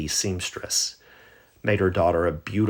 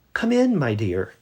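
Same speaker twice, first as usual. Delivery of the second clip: put-on much higher, louder quavering old lady; old lady calling; 7 semitones higher, 6 dB louder than usual. Grandmother in bed calling to the door, high and loud. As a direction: call out like a frail grandmother.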